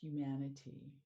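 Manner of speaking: measured meditation guide with long pauses; guided meditation. Acted. Mindfulness coach leading listeners through a sound meditation, unhurried guiding voice. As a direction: guide them gently into stillness, phrase by phrase.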